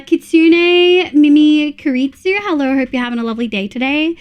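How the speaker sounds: put-on cheery greeting in an Australian accent; Aussie accent. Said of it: "I probably butchered that Aussie accent".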